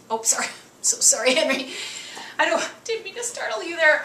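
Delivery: high soothing apology; apologizing to the dog. Real, not acted. Owner soothing Henry after her growl startled him. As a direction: coo sorry up high to calm him.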